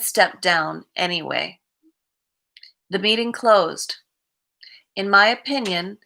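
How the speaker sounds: measured read-aloud of a reflection. Acted. Streamer reads the day's recovery reflection to viewers, measured reading. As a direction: read it out evenly, pausing between sentences.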